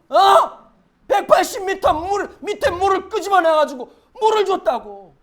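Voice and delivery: loud, high, indignant bragging; exasperated God. Acted. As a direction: hammer home the favor. God boasting of provision.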